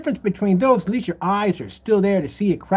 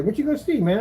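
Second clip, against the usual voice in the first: lightly voiced stranger, higher; curious passerby; 3 semitones higher, faster than usual. Stranger asking about the movie, curious. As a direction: pitch up for a casual question.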